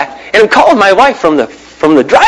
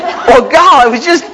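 sheepish apology; 8 semitones higher, slower than usual. Retold or imitated. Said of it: "I was like".

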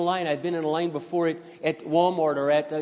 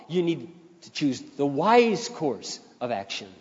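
slow weighty instruction; slower than usual. Acted.

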